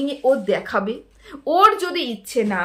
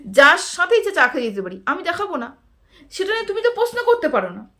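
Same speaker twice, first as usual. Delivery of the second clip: unbothered retort; 3 semitones higher than usual. Retold or imitated. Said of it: "ও নির্বিঘ্নে বলে ফেললো".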